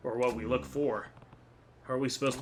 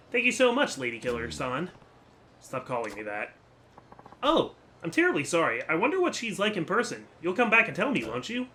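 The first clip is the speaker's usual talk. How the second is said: put-on bright, higher eager young woman; excited young woman; 5 semitones higher than usual. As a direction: gush with praise.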